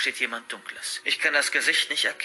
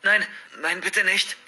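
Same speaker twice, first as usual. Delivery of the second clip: pleading, rising higher; mild frightened plea, pitch climbing; begging; 5 semitones higher, slower than usual. Acted. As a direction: beg him to spare you. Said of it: "bettle ich".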